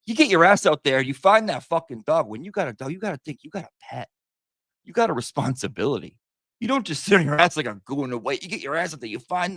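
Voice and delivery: lightly hammed-up scolding; mock lecture to a pet owner, pitched a little up; Billy Madison quote. Streamer quoting a movie about finding the dog, in mock scolding. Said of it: "that's from Billy Madison".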